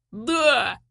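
high, eager battle cry; accepting the guard duty, high warlike cry. A narrator's reading. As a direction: shout it like a young warrior. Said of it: "воинственно закричала она".

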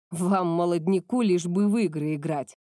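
lightly voiced grumpy old man; playful old grumble. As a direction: grumble it in jest, like an elder. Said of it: "шутливо проворчал Шин".

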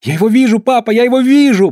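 put-on the boy cries out on spotting Tom; shrill shout. A narrator's reading. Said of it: "пронзительно закричал мальчуган". (пронзительный крик мальчика)

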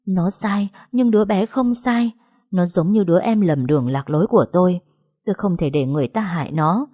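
ordinary delivery

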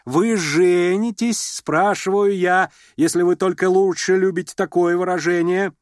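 lady pressing the suitor; insistent sarcastic demand. A narrator's reading. Repeated pointed demand.

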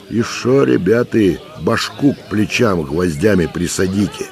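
put-on high, teasing old man egging them on; goading. A narrator's reading. Old man taunts soldiers from the gateway, goading. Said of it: "подзуживал он".

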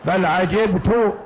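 عجبت read 'ajibtu, ending in -u; slow reading, عجبت closing on "tu"; damma on the ta. Shown as a demonstration. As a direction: say عجبت as "ajibtu". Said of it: "على قراءة ضم التاء".

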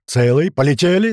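loud, rising cry of triumph; joyful yell. Acted. Krot finds the boat intact, joyful yell. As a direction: yell it out with relief. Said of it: "заорал Крот".

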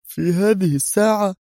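high-pitched incredulous question; lifted, incredulous tone; startled disbelief. A narrator's reading. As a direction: question the hour in surprise. Commander startled at late visit.

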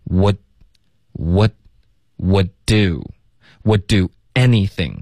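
"would do" with the first d swallowed; slow build-up from "would" to "would do anything"; dropped d. Shown as a demonstration. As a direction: hold the stop in "would", release only on "do". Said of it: "我们要省略".

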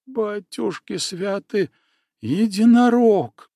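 startled exclamation. A narrator's reading. Girl sees monster, exclaims.

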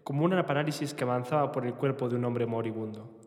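novel narration, read steadily; voz de lectura. Acted. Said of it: "Una voz cavernosa de lectura". (lectura de novela en voz alta)

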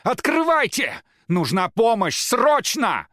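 high, loud, slow pleading shouts; desperate yelling. A narrator's reading. Рома pounds on the locked door, yelling for help. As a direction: yell through the door for help. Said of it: "кричал Рома".

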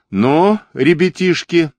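put-on an amused older man stumbling onto a fight; удивлённо. A narrator's reading. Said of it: "чей-то удивлённый голос". (пожилой солдат видит драку и удивлённо окликает)

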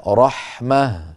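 رحمة said slowly, ending in a breathed h; pause form with h. Shown as a demonstration. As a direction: stop on رحمة with a still h, no t. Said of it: "يوقف عليها". (نطق رحمة بالوقف على هاء ساكنة)

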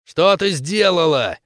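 slow menacing growl; slow growl at the captive. Acted. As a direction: growl the question. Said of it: "прорычала Хоуп".

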